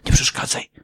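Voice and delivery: mock-stern parent shushing a hungry baby; parent hushing baby. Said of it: "wytłumaczcie mu".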